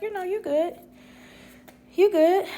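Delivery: high, easygoing reassurance; re-enacted sweet forgiveness; reassuring. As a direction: wave off the apology in a high voice. Reassures the apologizing mother.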